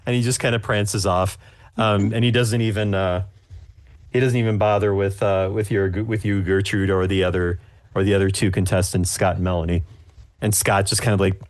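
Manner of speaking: normal talking voice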